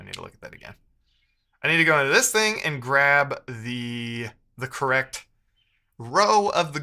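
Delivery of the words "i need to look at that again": much softer, whispered aside; whisper to self. Real, not acted. Coder whispers a note to himself while reading code. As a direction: breathe it under your breath.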